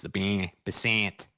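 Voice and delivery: basant drawn out slowly with flat hard A's; hard American A's. Shown as a demonstration. Streamer showing how Americans say basant, slow. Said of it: "you got the hard A's".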